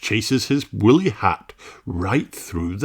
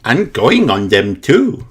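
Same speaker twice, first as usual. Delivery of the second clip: put-on higher little pig girl, cheerful; Peppa voice; 9 semitones higher, 5 dB louder than usual. A narrator's reading. Peppa telling about her daddy, lightly higher cheerful girl voice.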